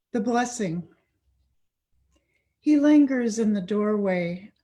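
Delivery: measured storytelling verse, line by line; deliberate poetry-reading cadence; poem reading. Acted. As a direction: recite your poem to an audience with pauses between phrases. Reads own poem aloud.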